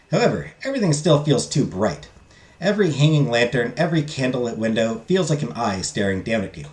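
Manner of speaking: steady storybook narration; calm narrator reading a mystery scene; story narration. Acted. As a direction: read the game's story like an audiobook. Reads visual novel narration aloud.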